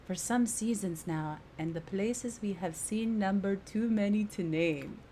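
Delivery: wobbly put-on British accent; formal British accent drifting towards Jamaican; British accent slipping Jamaican. Companion recounting travels with her husband, in unsteady British accent. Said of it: "Now British is turning Jamaican".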